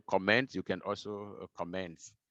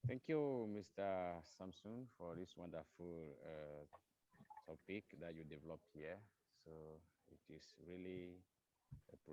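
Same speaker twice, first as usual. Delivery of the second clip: barely audible, far from the mic; speaking too softly to be heard; faint, too quiet; 13 dB quieter than usual. Real, not acted. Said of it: "Frankie, your voice is down".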